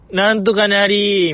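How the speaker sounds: slow, drawn-out character catchphrase; King from Ikebukuro West Gate Park. Retold or imitated. Host teasing a listener's dated phrasing, mock character impression. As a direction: mimic a drama character, stretching the ending. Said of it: "ウエストゲートパークのキングやん".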